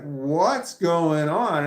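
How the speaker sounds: loud, drawn-out bewilderment; baffled question. Retold or imitated. Imitating roommate who walked in on yelling, baffled. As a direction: stretch it out in astonishment.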